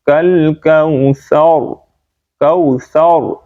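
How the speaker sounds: "کوثر" slow, ending in a thick rounded r; heavy final r. Shown as a demonstration. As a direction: fill out the r of "کوثر". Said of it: "را کو موٹا پڑھیں گے".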